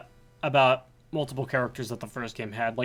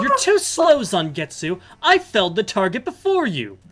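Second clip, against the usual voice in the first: raised, bright heroine voice for Dominique; female character voice; 5 semitones higher, 5 dB louder than usual. Acted. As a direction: read it as the confident exorcist heroine. Reading female character's lines.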